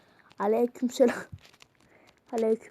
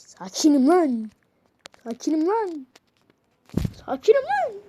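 building protest; 2 semitones higher than usual. Real, not acted. Repeating "I'm calm" rising.

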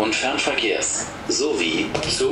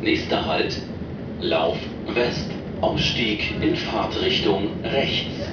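over the intercom. Real, not acted. Recorded train stop announcements.

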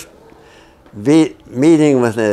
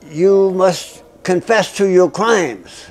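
interrogator's demand; 8 semitones higher, slower than usual. Retold or imitated.

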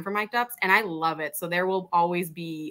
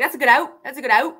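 put-on Canadian accent; 5 semitones higher, 7 dB louder than usual. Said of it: "thick Canadian accent".

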